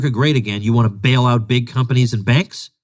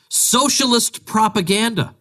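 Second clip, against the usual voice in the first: high mock quote; 11 semitones higher, slower than usual. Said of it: "Then this one".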